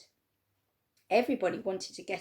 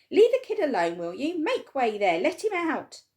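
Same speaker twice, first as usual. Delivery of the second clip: louder commanding shout; firm shout; 6 semitones higher, 8 dB louder than usual. A narrator's reading. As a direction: order the crowd back. Shopkeeper clearing crowd.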